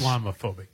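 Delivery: "Islamophobic" with a broad "lahm" in the middle; -lahm- pronunciation. Retold or imitated. Co-host echoing how the guest said "Islamophobic", broad "lahm" pronunciation. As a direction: lightly mimic "Islamophobic" as "iz-LAH-muh-FOH-bik". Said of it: "the way he said it".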